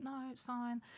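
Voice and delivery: hushed, very soft, holding back tears. Retelling being left at boarding school as a child: imitating holding back tears. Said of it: "I had these tears in my eyes, and I was trying to hold it back".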